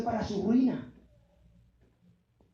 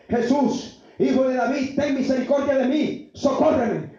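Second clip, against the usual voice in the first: mildly raised imitation of a woman calling out; imitated crying out; 5 dB louder than usual. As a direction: call for help in a lightly acted shout. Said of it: "Y empezó a dar voces". (imitando un clamor a voces)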